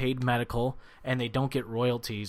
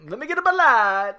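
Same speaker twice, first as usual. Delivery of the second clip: announcer voice, louder; fighting game announcer; 12 semitones higher, 6 dB louder than usual. Shown as a demonstration. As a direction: call it out like a ring announcer. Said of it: "the weird announcer guy".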